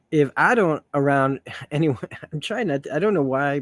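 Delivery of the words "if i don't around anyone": faltering attempt at a Southern accent; Rogue, Southern accent. Reader botching Rogue's line, shaky attempt at Southern accent. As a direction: stumble through a Southern accent. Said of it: "I can do a southern accent".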